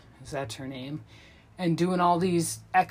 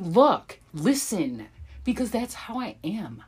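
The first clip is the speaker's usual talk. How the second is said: unbothered sloth. Retold or imitated. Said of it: "And he's like".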